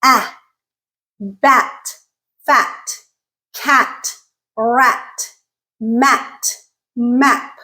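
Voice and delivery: ah as in bat, tongue low; bat, fat, cat, each word set apart; low front vowel. Shown as a demonstration. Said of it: "the tongue is lowest for this sound".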